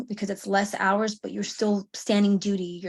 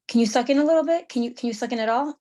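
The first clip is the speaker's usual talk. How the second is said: quick, higher, pushed questions to a sick friend; concerned friend; 4 semitones higher, 3 dB louder, faster than usual. Retold or imitated. Sergeant asks a sick friend to suck in, quick and high. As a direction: press her friend to suck in her gut. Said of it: "she's like".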